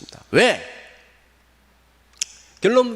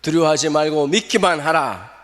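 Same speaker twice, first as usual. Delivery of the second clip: call to repeat; 2 semitones higher, 5 dB louder than usual. Shown as a demonstration. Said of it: "다 같이 따라합시다".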